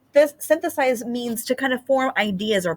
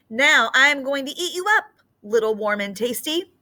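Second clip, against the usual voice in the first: greedy snake; 6 semitones higher than usual. Acted. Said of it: "said the snake".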